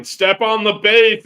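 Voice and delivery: high, loud drawn-out holler; slow, high-pitched shout from the stands; imitated crowd yell. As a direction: yell it like an exasperated crowd at a ballgame. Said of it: "the whole crowd was yelling".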